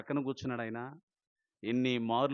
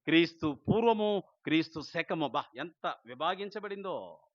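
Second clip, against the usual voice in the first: usual speaking voice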